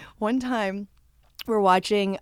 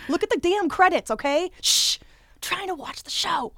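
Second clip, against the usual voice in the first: mock frantic rant; 11 semitones higher than usual. Retelling yelling at friends to check the credits, mock rant. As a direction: rant like you've had enough. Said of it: "I freaked out".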